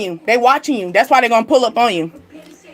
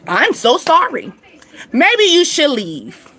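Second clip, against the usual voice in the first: mock sorry; 2 semitones higher, slower than usual. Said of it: "dismissing someone slowly".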